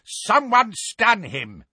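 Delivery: high, slow gruff shout. A narrator's reading. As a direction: yell for help holding him. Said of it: "the Death Eater shouted".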